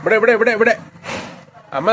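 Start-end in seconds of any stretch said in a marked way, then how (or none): 0.0-0.8 calling out. Real, not acted. Calling to mother.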